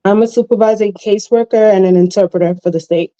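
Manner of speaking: talking while chewing gum. Real, not acted. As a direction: speak around a wad of gum. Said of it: "Are you chewing gum?".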